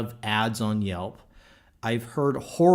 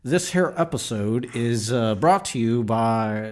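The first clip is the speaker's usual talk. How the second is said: put-on Texan accent; 4 dB louder than usual. Host reading the sponsor line in a light Texan accent. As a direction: lightly play the Texan announcer. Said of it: "As long as you got the accent".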